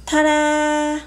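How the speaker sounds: high, bright reveal; ta-da, like unveiling a surprise; excited ta-da. Real, not acted. Presenting the finished dish.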